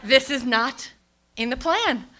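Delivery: high, loud, drawn-out alarm; hammed-up panic, easing slightly at the end; acted panic. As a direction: wail it slowly in mounting dismay. Acted panic as waters break.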